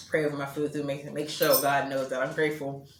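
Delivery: talking with a juicy mouth; mouth watering. Real, not acted. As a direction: speak through a watering mouth. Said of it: "my mouth is so juicy 'cause I'm so hungry".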